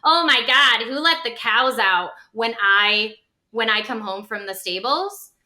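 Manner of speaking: hammed-up passive-aggressive griping. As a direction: act out a passive-aggressive complaint. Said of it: "gonna be passive aggressive".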